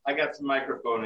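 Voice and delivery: muffled bad mic with echo; echoing bathroom. Real, not acted. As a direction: voice bouncing off tiles. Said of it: "You sound like you're in the bathroom".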